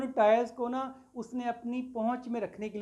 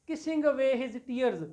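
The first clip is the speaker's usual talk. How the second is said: slow poem recital; 3 semitones higher, much slower than usual. Shown as a demonstration. Teacher reciting a poem line.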